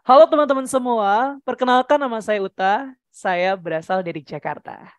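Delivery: descending self-introduction; high to low. Shown as a demonstration. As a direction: start high, step down to a low ending. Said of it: "Kak Uta pengen dari tinggi ke rendah".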